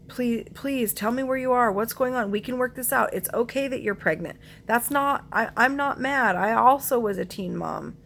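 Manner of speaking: mother begging her missing daughter to say where she is. Retold or imitated. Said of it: "begging her".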